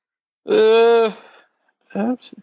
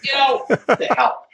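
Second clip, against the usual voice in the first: words stretched and half-voiced through a yawn; cursing through a real yawn; yawning while talking; 3 semitones higher than usual. Real, not acted. Podcaster caught by a yawn curses co-host's mention of it, yawning. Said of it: "and I yawned".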